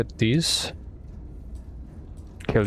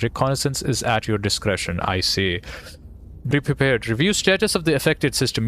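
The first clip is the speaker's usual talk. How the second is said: slightly raised, steady official orders; military briefing read-out; 2 semitones higher than usual. Acted. Reads out command's orders.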